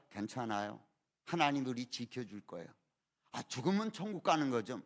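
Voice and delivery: low, soft reassurance; acting out an unshaken wife, quietly comforting; calm, steady wife. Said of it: "안정된 마음".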